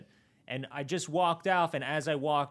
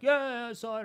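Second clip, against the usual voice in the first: imitating Jimbo; 10 semitones higher, much faster than usual. Retelling Jimbo's curt reply.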